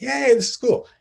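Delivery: a squeaky, hammed-up little yay; mock cheer. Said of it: "I was just like".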